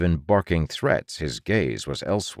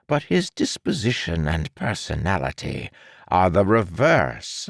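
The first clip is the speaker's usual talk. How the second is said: smug villain doctor; 5 semitones higher than usual. Acted. Doctor explains scheme.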